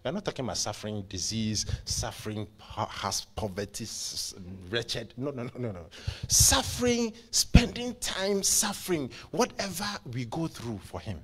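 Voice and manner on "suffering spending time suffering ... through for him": high, loud burst, easing toward the end; emphatic preaching. Real, not acted. Preacher on suffering for him, emphatic preaching. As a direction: cry it out to the congregation, then ease.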